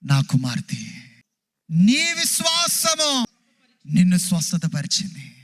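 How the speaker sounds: slow, tender blessing; Jesus tenderly tells the healed woman she is his daughter; Jesus speaking tenderly. Acted. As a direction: bless her gently as a father would. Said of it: "యేసుప్రభు వారు అన్నారు".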